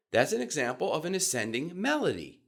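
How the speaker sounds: fun, engaging rise; ascending melody. Shown as a demonstration. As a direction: end the sentence on a rising tune. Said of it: "My pitch went up near the end".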